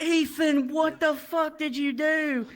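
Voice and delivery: high-pitched, drawn-out mock outrage; appalled scolding. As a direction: retell it as an aghast telling-off. Classmates scold Ethan after the slap.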